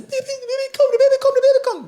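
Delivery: high, urgent repeated shout; frantic call to midwife. Retold or imitated. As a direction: blurt it out in a panic to the midwife. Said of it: "I said".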